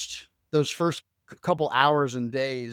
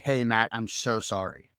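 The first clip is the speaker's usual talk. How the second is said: lower, gently sympathetic quote; retold sympathy; 4 semitones lower than usual. Neighbour texting condolences to him, retold sympathy. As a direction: voice a mild, consoling apology.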